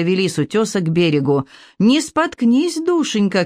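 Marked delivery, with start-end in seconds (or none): 1.8-3.4 calling out. A narrator's reading. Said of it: "крикнула миссис Дэшвуд".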